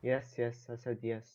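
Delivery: faint, hard-to-hear voice; barely audible. Real, not acted. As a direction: answer weakly, far from the mic. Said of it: "can you speak louder".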